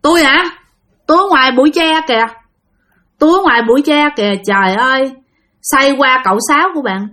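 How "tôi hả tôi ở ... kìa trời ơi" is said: lightly voiced old ghost woman, higher and fast; a quick high ghost voice saying where she lives; bà già nhập hồn. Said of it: "Cái bà già nói rằng". (vong bà già nói cao, nhanh)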